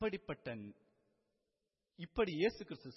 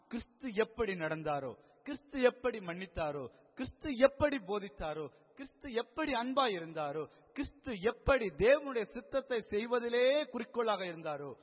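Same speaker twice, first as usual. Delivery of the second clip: rising steadily higher and louder with each phrase; building exhortation; 7 semitones higher, 6 dB louder than usual. Real, not acted. Preacher urging listeners to walk as Christ did, building fervour. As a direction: drive each repeated phrase up to a peak.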